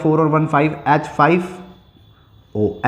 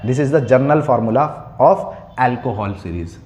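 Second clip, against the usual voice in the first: slow dictation; much slower than usual. Shown as a demonstration. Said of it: "teacher dictating statement".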